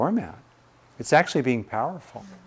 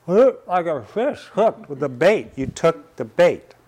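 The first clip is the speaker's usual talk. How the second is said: mock taunt; 6 semitones higher, 4 dB louder than usual. Father mocking son, raised voice.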